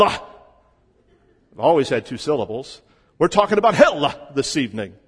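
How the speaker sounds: imitating a fiery old Texas preacher, slow and drawn out; Lester Roloff impression. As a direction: drawl it like an old revival preacher, stretching the words. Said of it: "Lester Roloff decided that the word hell had two syllables".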